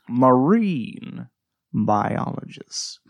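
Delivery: slow, drawn-out quote; quoted movie bit. Retold or imitated. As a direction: stretch out biologist. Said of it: "I quote this one bit".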